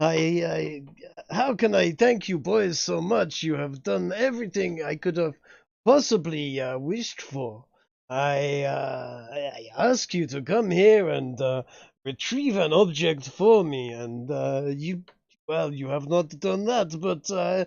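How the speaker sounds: effusive, emphatic, gushing grateful tone. Voicing a rabbi character thanking the boys for their help, emphatically thankful rabbi. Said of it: "he's emphatically thankful for you".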